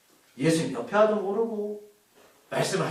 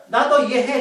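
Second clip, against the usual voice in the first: reassuring; 4 semitones higher, 7 dB louder than usual. Acted. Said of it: "이렇게 말씀하는 거예요".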